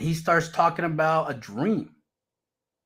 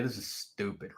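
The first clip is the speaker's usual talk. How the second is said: thinking aloud; 7 semitones lower, 14 dB quieter than usual. Retold or imitated. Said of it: "I'm over there thinking".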